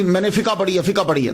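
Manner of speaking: فقہ said casually as "fi-kaa"; easy two-syllable فقہ with a vowel ending; common pronunciation. Shown as a demonstration. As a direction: quote everyday speech, "fika" for فقہ. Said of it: "دیکھا نا عام چلتا ہے".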